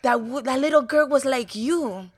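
a hint of mom telling her daughter about Whale Rider; imitating mom. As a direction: play your mother, sure of herself. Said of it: "she would say".

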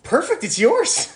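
handing it over with a flourish; lightly played generous self; mock breezy reply. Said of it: "I'm like".

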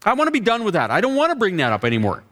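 put-on indignant girl. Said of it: "she said".

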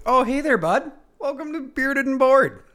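bright hype podcast greeting; enthusiastic. Shown as a demonstration. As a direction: draw the audience in with energy. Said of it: "I like that enthusiasm".

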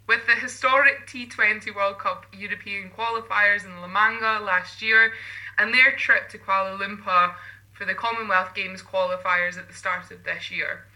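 bright broadcast read with lifted lines; scripted presenter read. Acted. Co-host reading the guests' introduction, broadcast style. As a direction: read the intro like sports news.

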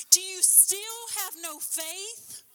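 preacher's loud, slowed rebuke; thundering repeat. Acted. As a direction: hammer the question home. Preacher repeats at full force.

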